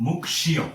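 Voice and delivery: মুক্ষীয়। with k and sh both sounded; correct pronunciation. Shown as a demonstration. Teacher shows both consonants, মুক্ষীয়। modelled carefully. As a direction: split মুক্ষীয়। as 'muk-shiyo'. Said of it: "এটির উচ্চারণ হবে".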